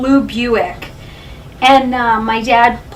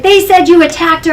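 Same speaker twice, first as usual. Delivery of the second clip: retold insistent accusation; 5 semitones higher, 7 dB louder than usual. Retelling dad's accusation again.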